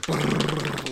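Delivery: double bass drum imitation. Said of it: "like a double bass pedal".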